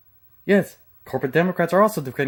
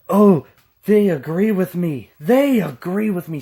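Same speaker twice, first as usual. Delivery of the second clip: mocking tone; 4 dB louder than usual. Mocking progressives' reasoning.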